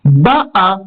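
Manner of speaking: Ba'a with the weight on Ba; BA'a, first syllable accented; stress on first syllable. Shown as a demonstration. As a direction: hit the opening syllable of Ba'a. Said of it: "le Ba qui est accentué".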